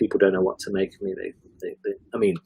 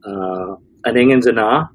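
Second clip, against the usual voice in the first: put-on Dundonian accent; 3 dB louder than usual. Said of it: "very strong Dundonian accent".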